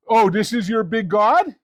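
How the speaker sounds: mildly mocking question, lifting at the end; lightly scornful retold taunt. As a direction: poke fun at their god. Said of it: "He starts making fun of them".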